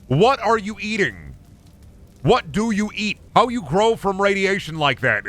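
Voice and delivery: high-pitched incredulous questions; exasperated questioning. Pretend. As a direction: pitch it way up, demanding an answer. Mock interrogation of the game monsters.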